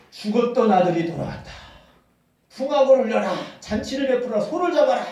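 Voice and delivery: a father calling out the good news; joyful proclamation. Acted. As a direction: announce the feast like an overjoyed father. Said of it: "해가지고 너무 기뻐하는 겁니다".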